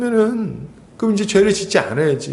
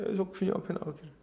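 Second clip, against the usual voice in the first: 계속 주님 앞에 나아가기를 repeated much softer and faster, almost under the breath; soft quick echo; 2 semitones lower, 15 dB quieter, faster than usual. Shown as a demonstration. Preacher echoes his own point to the congregation, softly and quickly. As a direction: murmur the phrase back to yourself quickly. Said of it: "계속 주님 앞에 나아가기를 힘쓰는 거예요".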